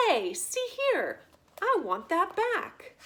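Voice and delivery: protest, wounded and outraged; indignant protest. Acted. Prisoner demanding the rat return his tablecloth, indignant and loud.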